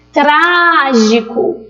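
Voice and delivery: Trágico with TRA stretched very long; calling out the word. Shown as a demonstration. Teacher showing the antepenúltima, calling Trágico with long TRA. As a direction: call Trágico slowly, holding the stressed TRA. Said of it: "falar sempre chamando aquela palavra".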